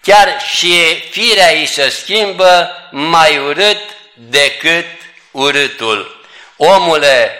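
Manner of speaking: slow, measured recital of a rhymed poem. Acted. Preacher reciting a poem to the congregation, measured recital. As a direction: recite each line deliberately to the flock.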